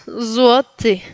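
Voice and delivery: Złoty ending between te and ti; buzzed ZWO, then Polish y in Złoty. Shown as a demonstration. Teacher illustrating the vowel, careful model. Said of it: "se pronuncia entre E y I".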